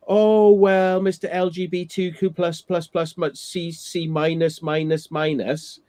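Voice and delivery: mocking authorities. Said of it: "And they're gonna go".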